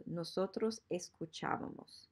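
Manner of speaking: "escuchábamos" with the stress on CHÁ; stress on accented A. Shown as a demonstration. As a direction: model "escuchábamos", leaning on the accented á. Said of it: "the tilde, is very important here".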